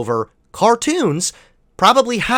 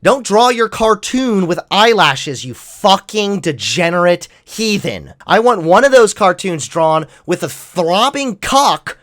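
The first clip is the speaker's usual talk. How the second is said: mock preacher; 3 semitones higher, 3 dB louder than usual. Parodying a religious conservative.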